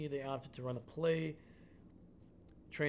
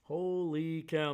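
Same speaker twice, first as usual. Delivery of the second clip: amazed; 4 dB louder, slower than usual. Real, not acted. Amazed at the big score.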